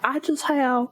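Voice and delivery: aborted mock-British; bad British accent. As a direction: try British and abandon it. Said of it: "no, that was, nope".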